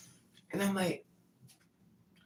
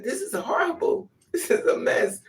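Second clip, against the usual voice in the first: very high then breathy; high panicky lament; high comic wail; 11 semitones higher, 4 dB louder than usual. Retold or imitated. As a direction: squeal it inside your head. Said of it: "it's like".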